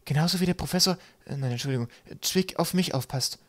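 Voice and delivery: high-pitched character voice; small crewmate's voice. A narrator's reading. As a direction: pitch it well up, a little hesitant. Kaukab's voice acted in story.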